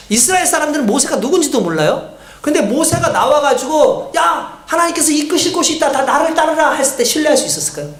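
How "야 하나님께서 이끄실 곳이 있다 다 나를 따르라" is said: higher, rallying call to follow; lightly acted leader. Moses calls Israel to follow him, lightly acted summons.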